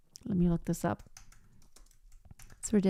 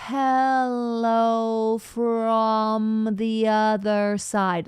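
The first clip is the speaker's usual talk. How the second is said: slow spoken line; much slower than usual. Shown as a demonstration. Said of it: "it's not placed correctly".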